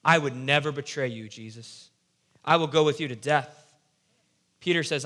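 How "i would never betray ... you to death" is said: acted confidence. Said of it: "So take some confidence there".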